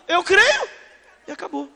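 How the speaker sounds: proclaiming it through a laugh; laughing preacher finishing the creed. Real, not acted. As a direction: break into a laugh as you say it.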